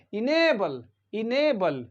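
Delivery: enable said with a long, stressed "NAY". Shown as a demonstration. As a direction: stretch the A in enable. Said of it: "ये long ए है यहाँ पर".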